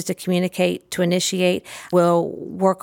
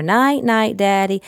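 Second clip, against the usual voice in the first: sing-song night-night; 3 semitones higher, slower than usual. Shown as a demonstration.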